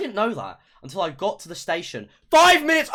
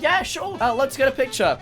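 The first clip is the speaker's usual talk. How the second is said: imitating the fan; 5 semitones higher than usual. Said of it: "she was like".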